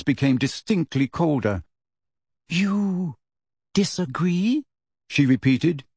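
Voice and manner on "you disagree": cold disbelief. Acted.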